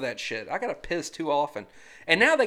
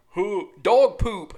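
mock ad announcer; 2 semitones higher, 8 dB louder, much slower than usual. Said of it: "board games is like".

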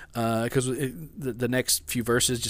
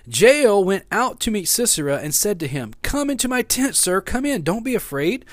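animated Bible story reading; Scripture reading; 7 semitones higher, 3 dB louder than usual. Acted. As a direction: read Scripture aloud with emphatic, lifted phrases.

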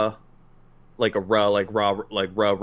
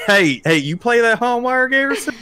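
Texas twang; 9 semitones higher, 4 dB louder than usual. Pretend. Teasing co-host in a rowdy Texas voice. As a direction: play the card like a rowdy Texan. Mock Texan card player.

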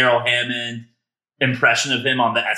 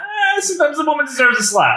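Sean Connery impression; 14 semitones higher than usual. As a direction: ham up a lispy Connery. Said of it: "Connery quote".

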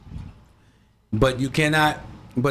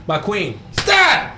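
shouted command; 4 semitones higher, 4 dB louder, much slower than usual. Pretend. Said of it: "walked up right to the queen like".

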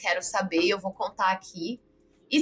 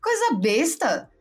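exasperated rant; 3 semitones higher than usual. Retold or imitated. Podcaster scoffing at the driver's language contest, exasperated. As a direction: stretch out the first word in mock despair.

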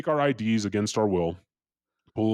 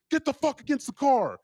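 very high mock police yell; high-pitched imitation of a screamed order; imitated cop shout. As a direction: mimic a cop yelling at gunpoint. Cop ordering him around.

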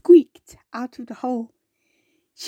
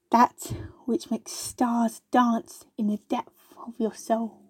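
dreamy; 5 dB quieter, slower than usual. Acted. Wasp speaks dreamily after breath.

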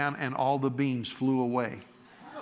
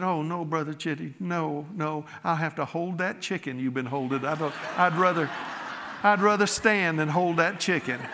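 laughing refusal; 3 semitones higher than usual. Retold or imitated. Lady on the bus, laughing her refusal to the preacher. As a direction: laugh through the polite refusal.

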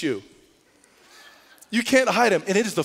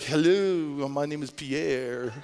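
mock French accent; 3 semitones lower, much slower than usual. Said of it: "he's pretending to be French".

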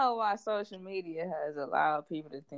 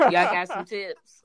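mocking quote, laughing; 6 dB louder, slower than usual.

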